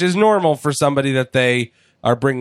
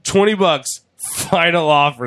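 desperate bidding; 5 semitones higher than usual. Retold or imitated.

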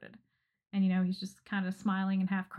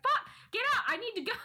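exasperated yell; 12 semitones higher, faster than usual. Retold or imitated. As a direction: shoo him out in a hurry. Kicking postman out of bath.

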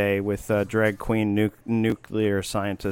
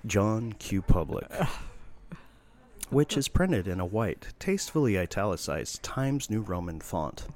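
theatrical stage narration; 2 semitones lower, 5 dB quieter than usual. Acted. Reading a satirical play to his friend, hushed narrator. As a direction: hush the house and paint the stage.

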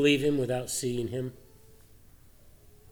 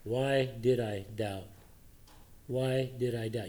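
Peter's inner regret; 2 semitones lower, 6 dB quieter, slower than usual. Acted. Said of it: "he's thinking here".

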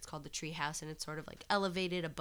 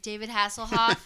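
loud call, pitched higher, across a waiting room; calling out a name; 4 semitones higher, 10 dB louder than usual. Retold or imitated. Nurse calling a patient from the waiting room. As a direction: summon the patient loudly.

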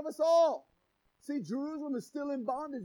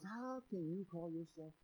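low, much softer devil's sneer; Satan voice; 6 semitones lower, 15 dB quieter than usual. Acted. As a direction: hiss the accusation like the devil. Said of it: "Satan comes in and goes".

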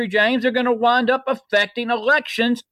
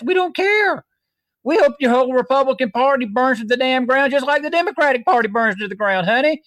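high defiant rant; 5 semitones higher than usual. Real, not acted. Radio host ranting at Republicans.

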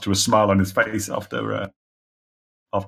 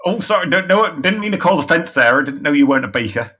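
flustered apology; 5 semitones higher than usual. Acted. Trader apologises in character.

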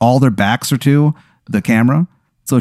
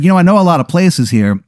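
put-on terrible Chicago accent; 6 semitones higher than usual. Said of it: "he's from Chicago".

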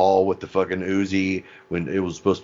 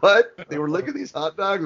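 shocked Barb; 12 semitones higher than usual. Retold or imitated. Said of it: "Barb's like".

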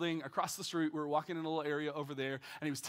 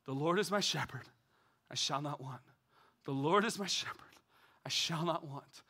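breath prayer demo; 2 semitones lower than usual. Shown as a demonstration. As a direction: pray it gently on the breath. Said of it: "Let me give you another one".

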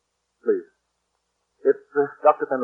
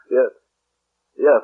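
ordinary delivery

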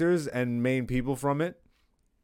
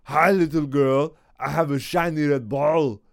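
Arnold impression. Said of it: "That's actually really good".

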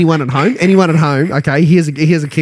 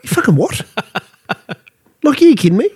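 incredulous outburst; 10 semitones higher than usual. Retold or imitated. Boss reacting to applicant's wage demand, high incredulous outburst. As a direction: rise up high in outraged disbelief. Boss's outraged reaction, retold.

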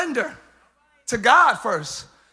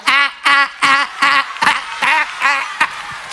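hype friend cheering; 4 semitones higher, 7 dB louder, slower than usual. Retold or imitated. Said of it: "They be like".

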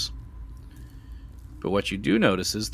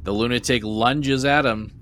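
loud cliffhanger reveal; dramatic narration; 3 semitones higher, 5 dB louder than usual. Acted. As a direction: build the scare, loud.

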